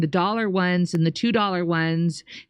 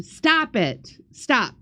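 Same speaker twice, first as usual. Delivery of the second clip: exasperated; 4 semitones higher, much slower than usual. Real, not acted. Host reacting to accusing super chat.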